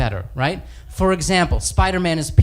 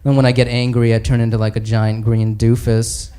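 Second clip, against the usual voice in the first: sheepish Bruce Banner; 6 semitones lower than usual. Acted. Banner voiced low, sheepish.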